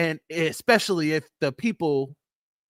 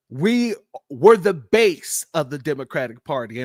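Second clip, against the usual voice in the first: were leaned on hard; stress on were; 3 dB louder than usual. Shown as a demonstration. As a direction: hit the word were. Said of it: "keywords on the word were".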